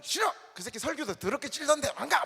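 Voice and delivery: hammed-up blunt no; mock angry refusal. Preacher acting the blunt refusal Chungcheong folk never give, loud. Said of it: "막 이런, 이런 게 아니라".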